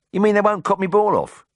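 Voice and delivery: very high Brummie question; high, disbelieving Birmingham patient; incredulous hope. A narrator's reading. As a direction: ask in amazed relief, pitched right up. Anxious patient hears good news.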